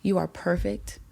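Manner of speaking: softly imitated motherly affirmation; tender reassurance. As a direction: speak gently, as if holding their face. Retold mentor reassures her, face in hands.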